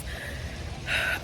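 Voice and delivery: long shaky exhale; nervous sigh. Real, not acted. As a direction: breathe out the nerves. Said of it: "I'm so nervous".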